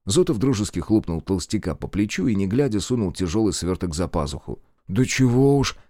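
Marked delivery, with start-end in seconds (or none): 4.9-5.8 скромно. Acted. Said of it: "скромно потупился Аверкин".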